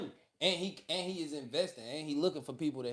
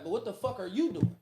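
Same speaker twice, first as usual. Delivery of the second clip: retold cussing; 2 semitones higher than usual. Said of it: "Literally verbatim how he said that".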